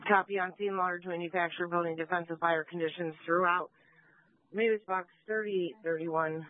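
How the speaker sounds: radio voice. Real, not acted. Dispatcher repeating report over radio.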